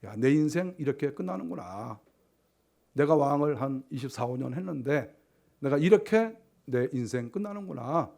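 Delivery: understated imitation of sorrow; sad dying king. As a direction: muse regretfully as your life ebbs. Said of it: "그러면서 뭐 슬퍼했겠죠".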